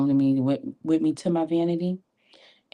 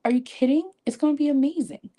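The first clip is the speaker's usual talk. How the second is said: excited; 11 semitones higher, faster than usual. Real, not acted. Hyping up viewers on daily routines, excited high voice. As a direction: pitch shoots up high, bubbly hype.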